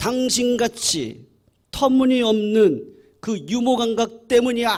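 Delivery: very high-pitched, exasperated, irritated yell. Retelling an annoyed husband shouting at his wife: imitating an annoyed husband shouting. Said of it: "짜증이 난 것 같아요. 하면서 또 소리를 지릅니다".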